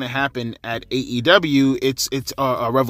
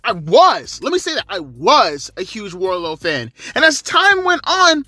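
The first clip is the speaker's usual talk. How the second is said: much higher, loud, fired-up ranting; real excitement, pitched way up and loud; hyped up; 13 semitones higher, 3 dB louder than usual. Real, not acted. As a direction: gush about him like you can't contain it. Hyped rant about Wardlow's promo.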